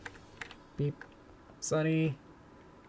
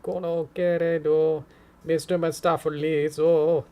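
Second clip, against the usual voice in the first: put-on Japanese accent; 3 semitones higher, 5 dB louder, slower than usual. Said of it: "say it in, like, a Japanese accent is fun".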